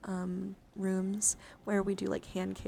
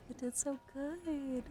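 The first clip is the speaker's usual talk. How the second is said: cooing praise; 5 semitones higher, slower than usual. Pretend. Cooing praise at camera focusing.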